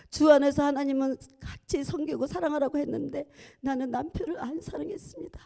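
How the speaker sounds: ordinary delivery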